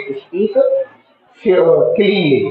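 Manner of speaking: क्लीनली said very slowly, every syllable drawn out; teacher modelling क्लीनली slowly for students; slow careful model word. Shown as a demonstration. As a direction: spell out क्लीनली slowly for the class to copy. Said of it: "क्या बोलेंगे?".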